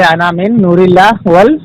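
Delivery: slow, careful repeating of Arabic; checking the recitation. Shown as a demonstration. Cleric repeating opponent's hadith back, slow careful reading. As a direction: repeat the Arabic words back slowly, testing them. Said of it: "انا کیا بولے؟".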